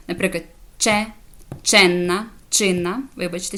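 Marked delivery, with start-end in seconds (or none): 0.8-3.0 «че», «ченна», «чинна» each opening on ch; «че», «ченна», «чинна» set apart, ch as in chin; ch examples. Shown as a demonstration. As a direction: model «че», «ченна», «чинна» one by one with a clear ch. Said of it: "Коли вона читається як буква".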